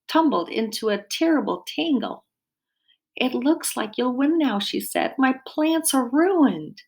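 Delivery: lively picture-book read-aloud; reading to children. A narrator's reading. Dietitian reading a garden story to children, lively storytelling. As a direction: read it warmly to a class of kids.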